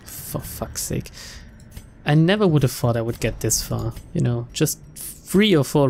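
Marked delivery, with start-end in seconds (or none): 0.0-1.1 whispering. Real, not acted. Frustrated curse after loss.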